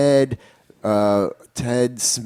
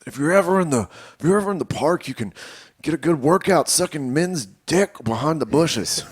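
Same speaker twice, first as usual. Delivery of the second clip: Doctor Phil style; 3 semitones higher than usual. Retold or imitated. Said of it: "Doctor Phil style".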